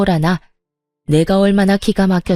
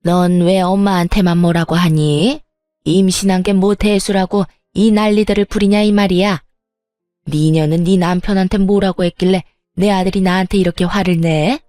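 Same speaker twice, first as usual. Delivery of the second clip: berating mother-in-law. Acted. Mother-in-law scolding her son and pregnant daughter-in-law, mildly angry. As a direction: lash out at both of them.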